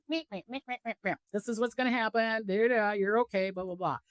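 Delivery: unbothered psychic just reading off what happens; detached psychic mom. Retold or imitated. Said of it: "the psychic mom that's like".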